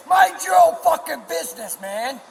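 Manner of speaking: high, heated shout; angry shout. Real, not acted. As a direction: snap it out furiously.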